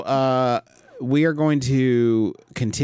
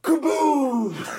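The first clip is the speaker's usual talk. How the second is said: excited shout; 13 semitones higher than usual. Real, not acted. Celebrating a pun.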